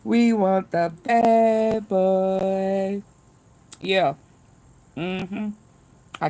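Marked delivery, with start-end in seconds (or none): 0.0-3.0 slow, drawn-out taunting voice; mock taunt. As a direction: drag it out like a jailhouse taunt. Guards taunting the prisoner.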